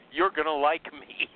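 mock sales pitch. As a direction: lightly parody a salesman's pitch. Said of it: "doesn't that sound like every sales, uh, every sales pitch?".

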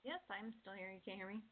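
distant, faint voice off mic; speaking from far across the room. Real, not acted. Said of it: "You sound like you were far away".

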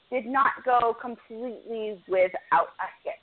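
hushed, breathy aside; whispered teaser of bad news; dramatic whisper. Real, not acted. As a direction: drop to a whisper for the twist. Dramatic turn in the story.

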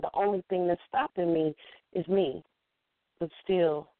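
measured poetry recitation with deliberate pauses; rhythmic telling, leaning on the rhymes; spoken-word poem. Shown as a demonstration. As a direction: perform it as a spoken-word piece, phrase by phrase.

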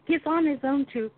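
lightly voiced puzzled man, halting; baffled husband. Husband sees his dog walking, baffled. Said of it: "And he's like".

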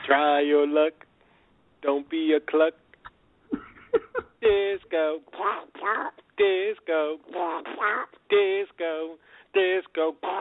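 high squawky novelty-song duck voice. Pretend. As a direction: sing it like a cartoon duck. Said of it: "You do that very well, Peach".

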